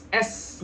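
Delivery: letter S as "es" with a lengthened hiss. Shown as a demonstration. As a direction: hold a light hiss at the end of S. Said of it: "ini ada sedikit desisan".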